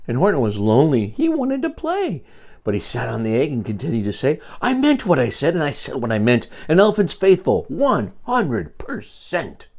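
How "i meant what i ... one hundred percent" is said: higher, steady vow, slowing at the end; lightly voiced faithful elephant; earnest elephant vow. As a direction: promise it with all his heart. Horton's faithful refrain.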